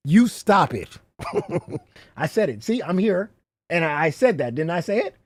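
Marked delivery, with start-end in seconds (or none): 0.1-1.0 mock scolding. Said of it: "I'm supposed to point my finger at you".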